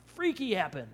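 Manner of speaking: hammed-up wonder; mock amazement. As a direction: exclaim as if awestruck, then drop the volume. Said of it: "not just interested in saying".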